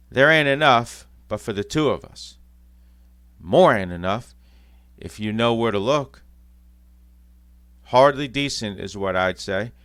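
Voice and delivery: loud, scornful cockney jibes; lightly voiced cockney bickering. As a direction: needle the others in a cockney voice. Thieves bickering over loot.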